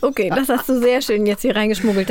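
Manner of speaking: verschwörerisch geflüstert; Flüstern. Real, not acted. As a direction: leise raunen wie ein Geheimnis. Verschwörerisch geflüstert zur Kollegin. (neckisches Flüstern)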